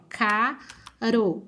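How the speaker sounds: CARO with a light single-tap R; weak R. Shown as a demonstration. Teacher showing R mid-word, weak tapped R in "caro". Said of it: "o som do R já fica fraquinho".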